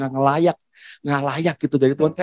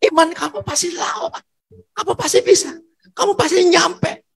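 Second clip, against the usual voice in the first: suara tinggi menyemangati, makin keras hingga berteriak; sorakan penyemangat; 10 semitones higher, 6 dB louder than usual. Retold or imitated. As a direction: seperti suporter menyoraki pelari yang hampir tiba, memuncak. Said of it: "tiba-tiba suaranya berubah, begini". (sorak semangat yang terus meninggi dan mengeras)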